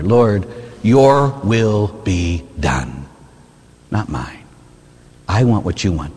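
slow reverent whisper of a prayer; humble surrender. Shown as a demonstration. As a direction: let go and hand it over.

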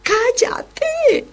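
high, fed-up telling-off; exasperated scolding. Retold or imitated. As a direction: scold him for the noise. Apostles hushing the shouting man.

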